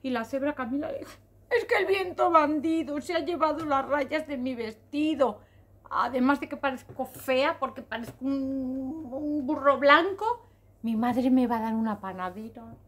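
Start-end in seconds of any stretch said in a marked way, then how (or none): 1.5-12.7 lightly acted weepy zebra; tearful complaint. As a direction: whine it out as if upset, mildly. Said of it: "¿Por qué lloras".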